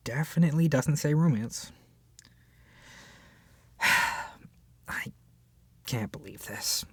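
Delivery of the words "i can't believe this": sigh, then whisper in disbelief; whispered dismay; stunned whisper. Acted. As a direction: breathe it out, hardly believing it. Sigh, shocked at the book's genre.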